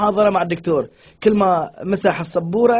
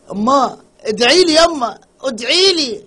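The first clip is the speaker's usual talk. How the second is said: put-on Egyptian accent; 3 semitones higher, 3 dB louder, slower than usual. Egyptian son begs mother.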